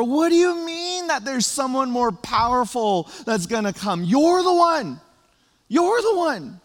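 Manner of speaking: high, loud and thrilled, building to a cry; excited crowd. Retold or imitated. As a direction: shout your hope at John like a crowd that's been waiting for years. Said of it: "they were probably thinking and feeling".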